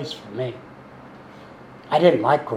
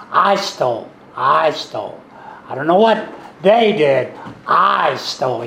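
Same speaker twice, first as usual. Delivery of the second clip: sarcastic. Retold or imitated. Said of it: "You hear my sarcasm?".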